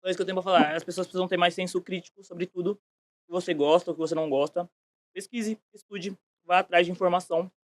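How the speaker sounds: chewing while talking; talking around a mouthful; mouth full. Real, not acted. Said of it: "eu vou falar mastigando".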